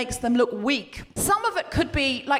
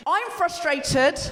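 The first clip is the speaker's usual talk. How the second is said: slow, drawn-out declaration of frustration; raw emotion; much slower than usual. Shown as a demonstration. Host setting a slogan for the crowd, raw emotion. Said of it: "it's just the raw emotion".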